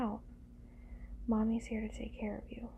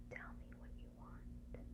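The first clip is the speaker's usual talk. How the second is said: whisper; 16 dB quieter than usual. Acted. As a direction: whisper it right into the ear. Coaxing the partner very closely.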